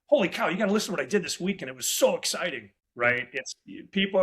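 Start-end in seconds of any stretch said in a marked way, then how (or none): 0.0-2.7 fast, bubbly rush of excitement; eager, fast and upbeat; excited. Retold or imitated. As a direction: gush like a fired-up salesman. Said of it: "would you rather talk to somebody who's real monotone".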